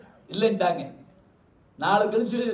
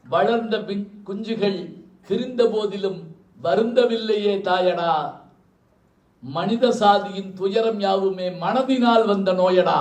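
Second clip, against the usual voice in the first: slow, louder, declaiming the verse; slow poetic recital; 3 dB louder, slower than usual. Acted. Speaker declaims the song's closing verse to the audience, slow and louder. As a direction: intone the lyric like a poem on stage.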